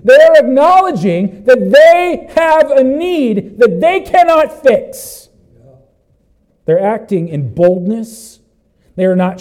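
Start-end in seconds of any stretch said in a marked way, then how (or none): 0.0-5.3 high, loud, slow declaration; impassioned preaching. Real, not acted. Preacher explaining the blind men's need, impassioned and loud. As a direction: drive each word home at full force.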